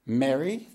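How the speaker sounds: "Mary" as in merry, short e of met, rising; East Coast pronunciation. Shown as a demonstration. East Coast speaker showing the word for frivolous, short-e "Mary". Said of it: "be frivolous".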